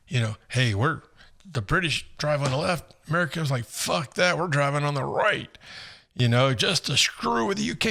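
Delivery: a hint of an amused Brit; imitating the British guy. British guy explains driving sides, in a light mock British accent. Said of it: "he goes".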